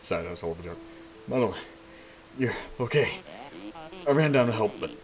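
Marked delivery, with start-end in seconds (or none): 4.1-5.0 panting after running down; breathless, catching air between words; out of breath. Acted. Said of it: "Oh, I'm out of breath".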